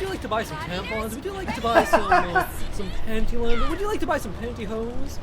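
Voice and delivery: lightly voiced pushy sales pitch; hammed-up online store salesman; mock ad voice. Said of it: "I get a lot of recommendations for".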